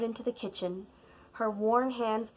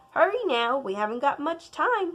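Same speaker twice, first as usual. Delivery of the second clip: higher, louder grandmother; urging grandma; 5 semitones higher, 4 dB louder than usual. Acted. Grandma rushing the child, louder. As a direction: hurry the child along.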